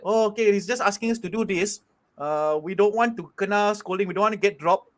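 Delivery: flat robotic player voice. Retold or imitated. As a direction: speak like a robot, no feeling. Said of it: "'cause he speaks like a robot".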